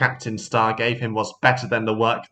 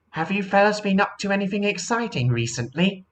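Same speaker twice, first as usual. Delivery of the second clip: seaplane voice; 9 semitones higher than usual. Acted. Sally asks.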